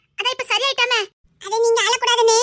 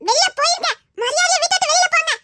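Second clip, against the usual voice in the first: imitated scolding; 3 semitones higher than usual. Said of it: "பார்த்து சொன்னாங்க".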